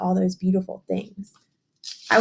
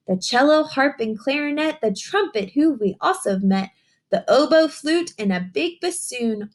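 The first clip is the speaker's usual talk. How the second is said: picture book reading; 3 semitones higher than usual. Acted. Teacher reading a rhyming book to young children, sing-song storytelling. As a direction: read the rhyme to the children, savouring each line.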